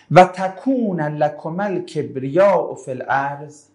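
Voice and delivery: drawn-out Quranic recital of و تکون لکم الکبریاء فی الارض; measured recitation of the verse; slow verse recitation. Shown as a demonstration. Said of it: "repeats the verse to explain it".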